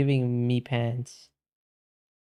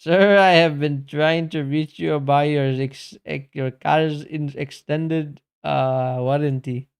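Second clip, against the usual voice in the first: put-on Indian accent; 4 dB louder than usual. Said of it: "You put it in an Indian accent".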